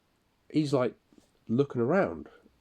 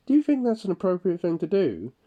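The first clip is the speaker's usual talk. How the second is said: raised, louder indignant challenge; angry challenge; 9 semitones higher, 6 dB louder than usual. Retold or imitated. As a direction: confront him, pitched up and loud. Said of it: "lost my temper then".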